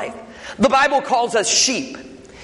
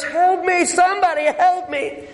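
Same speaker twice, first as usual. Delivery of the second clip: higher hollered plea for help; hollering for help; 8 semitones higher than usual. Acted. Man in gorilla suit hollers to nobody, pitched-up holler. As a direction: holler for help up into the empty zoo. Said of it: "And he hollers".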